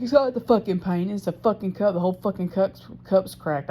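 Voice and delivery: mildly heated retold correction; irritated correction. Speaker imitating partner insisting cup is cracked, irritated.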